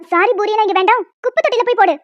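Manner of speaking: loud, scornful brush-off; dismissive mother. Acted. Mother rejecting the apology, scornful. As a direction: sneer the apology away.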